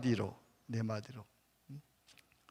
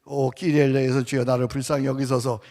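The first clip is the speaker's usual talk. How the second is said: prayer demo; 3 semitones lower, 4 dB louder than usual. Shown as a demonstration. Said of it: "어떻게 한다고요?".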